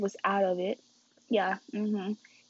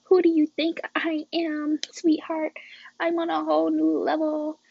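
higher, cocky and pleased with herself; playful swagger, a notch higher; cocky self-talk; 5 semitones higher than usual. Retold or imitated. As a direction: show off like you just leveled up. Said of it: "I'm like".

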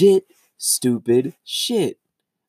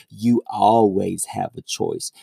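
lower, slow, preachy mock; mocking commenter; 5 semitones lower, slower than usual. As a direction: drag it out like a smug know-it-all.

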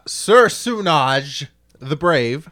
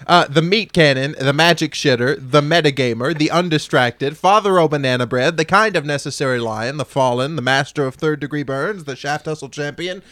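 all in one breath. Real, not acted. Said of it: "Thought I could do it all in one breath".

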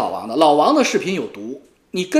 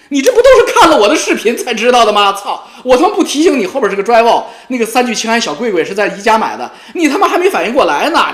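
laughing taunt; 5 semitones higher, 7 dB louder than usual. Real, not acted. Gloating taunt at rival.

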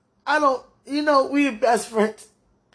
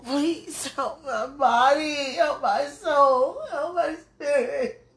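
slow, pleading prayer breaking into a sob; tearful prayer; slower than usual. Real, not acted. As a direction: draw each plea out, tears rising.

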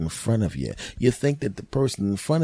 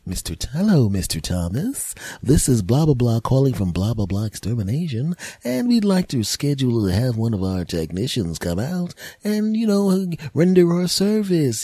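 exterminator voicemail; 4 semitones higher than usual. Retold or imitated.

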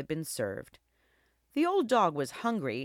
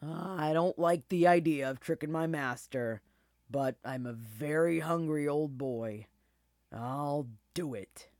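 put-on reluctant, weary old dog voice; sighing old dog. A narrator's reading. Old dog agreeing to trick his master, sighing. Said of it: "then sighed".

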